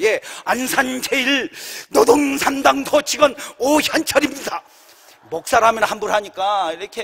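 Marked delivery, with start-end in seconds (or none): 0.0-4.6 slow, measured self-introduction, lightly acted; formal phone greeting. Pastor answering the boss's call, formal slowed greeting. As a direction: announce yourself officially, word by word. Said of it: "내가 이렇게 할 때".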